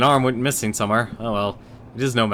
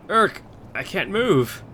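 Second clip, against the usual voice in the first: dark lord; 9 semitones higher, slower than usual. Acted. Skeleton lord finds he's stuck.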